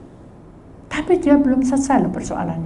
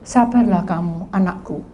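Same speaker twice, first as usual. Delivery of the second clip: low, soft and patient; calm a restless child; gentle patience; 7 semitones lower, 5 dB quieter than usual. Acted. God urging his child to be patient, softly.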